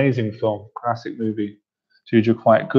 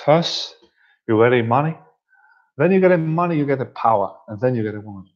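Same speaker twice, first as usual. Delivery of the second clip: Scarface impression. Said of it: "that's my Scarface impression".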